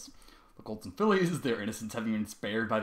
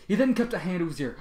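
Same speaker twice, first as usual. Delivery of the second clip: ordinary delivery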